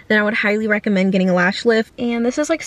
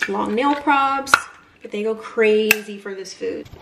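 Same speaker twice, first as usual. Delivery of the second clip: ordinary delivery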